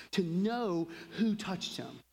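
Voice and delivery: hushed, unvoiced aside; whisper. Real, not acted. Preacher whispering to the congregation, hushed. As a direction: breathe it like a secret.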